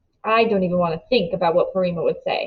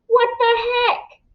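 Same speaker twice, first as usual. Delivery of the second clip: much higher, jumping-up yelp of surprise; jolted out of his seat; startled Jax. A narrator's reading. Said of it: "says Jax".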